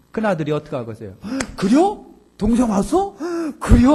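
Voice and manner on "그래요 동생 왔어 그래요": high, loud, overjoyed mock cry of surprise; much higher and louder, bursting with fake joy; mock delighted surprise. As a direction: play the brother thrilled his sibling is back. Elder son's imagined happy reaction.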